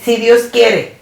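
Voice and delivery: tossed off as a habit, offhand; casual habit. Retold or imitated. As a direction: say it lightly, just out of habit. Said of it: "yo creía que era un hábito". (dicho a la ligera, por costumbre)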